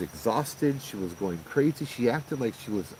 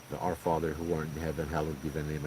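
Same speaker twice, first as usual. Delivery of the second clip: softly recited prayer; 4 semitones lower, 5 dB quieter than usual. Retold or imitated. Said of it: "and I start praying".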